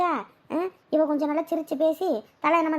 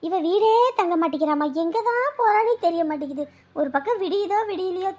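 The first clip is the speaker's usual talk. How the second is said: raised, aggrieved grumbling about her; indignant complaint; 4 semitones higher than usual. Acted. Mother-in-law complaining about daughter-in-law. (மருமகள் மீது எரிச்சலுடன் புலம்பல்)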